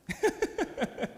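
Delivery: high-pitched burst of laughter; real laugh. Real, not acted. Preacher amused by the no-water answer, real laughter. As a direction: laugh at your own story. Laughs at his own story.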